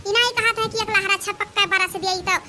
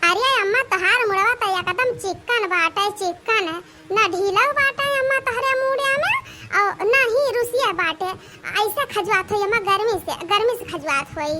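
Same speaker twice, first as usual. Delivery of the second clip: put-on a lightly raised, sweet young bride's voice; daughter-in-law voice. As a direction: coax the old woman gently as the bride. Daughter-in-law soothing mother-in-law.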